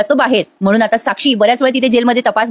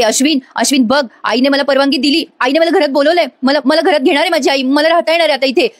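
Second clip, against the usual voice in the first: mock-delighted, pitch lifting as it goes; retold delight; 4 semitones higher than usual. Priya tells Ashwin mother let her into the house, acted delight. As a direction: imitate someone overjoyed, voice climbing higher. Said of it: "Priya आता लगेच आनंदी होते".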